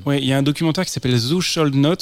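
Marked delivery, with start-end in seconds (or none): 1.2-1.9 "Thou Shalt Not" in shaky French-accented English; English title in a rough French accent; approximate English accent. Real, not acted. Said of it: "excusez mon accent, euh, approximatif".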